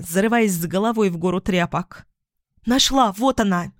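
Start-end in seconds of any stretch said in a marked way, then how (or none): 2.7-3.7 high exclamation of relief; excited cry. Acted. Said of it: "вскрикнула девушка". (радостный вскрик)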